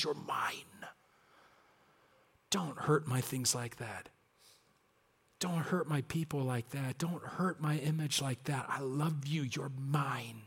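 hushed, very soft, slow words of love; God speaking tenderly. Retold or imitated. God quietly telling his people they are his, very soft hush. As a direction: whisper it like a father holding his child. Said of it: "and he says".

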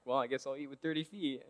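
quick, quiet resigned aside; imitated inner grumble, tossed off under the voice; thinking to oneself. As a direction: voice a grudging private thought, softly and fast. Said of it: "thinking to themselves".

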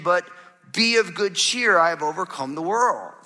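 slow, deliberate scripture reading; measured pulpit reading of a verse. Acted. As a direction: read the verse out slowly, word by word. Pastor reads John 16:33 slowly.

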